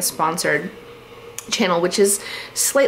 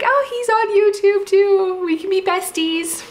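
naive giddy self; 11 semitones higher than usual. Retold or imitated. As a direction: gush like a hopeful fan imagining friendship. Imitating her naive past thought.

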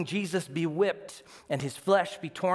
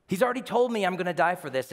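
amazed; 4 semitones higher, faster than usual. Shown as a demonstration.

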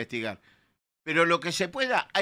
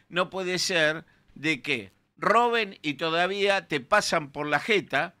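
slow, louder, indignant emphasis; fed-up, louder complaint about stolen money; 3 semitones higher, 3 dB louder than usual. Real, not acted. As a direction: drag out each word in outrage.

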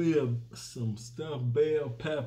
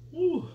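high whew; 4 dB louder than usual. Real, not acted. Exhale amid talk.

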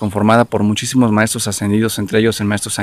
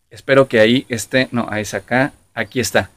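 metallic voice. Real, not acted. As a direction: voice ringing metallic in a resonant chamber. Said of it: "se escucha como metálico".

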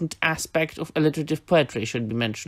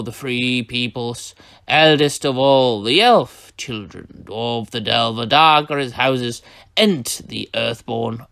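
Treebeard's verse. Shown as a demonstration. Teacher reading Treebeard's poem, slow and solemn. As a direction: chant the lore slowly like an ancient tree-herd. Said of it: "uttered this time ... by Treebeard".

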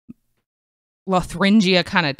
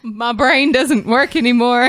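laughing; 8 semitones higher, 4 dB louder than usual. Real, not acted. Laughs at own slip.

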